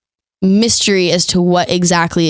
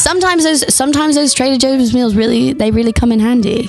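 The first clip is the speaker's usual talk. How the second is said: light British accent; 5 semitones higher than usual. Shown as a demonstration. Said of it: "British accent".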